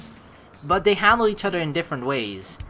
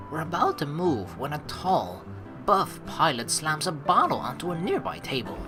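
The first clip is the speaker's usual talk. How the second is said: soft, measured narrator read; story narration; 5 dB quieter than usual. A narrator's reading. Narrating a pilot interrupting their exit, soft measured story narration. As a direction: build the scene quietly, with small pauses. Reads game narration aloud.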